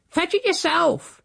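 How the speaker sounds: very high, slow screeched retort; defiant yell. A narrator's reading. Housekeeper refuses from upstairs, yelling defiantly.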